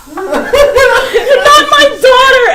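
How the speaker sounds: high, loud, drawn-out accusation; shocked accusation. Acted. Old woman rejecting the impostor, high shocked cry. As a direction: cry it out slowly in mock horror.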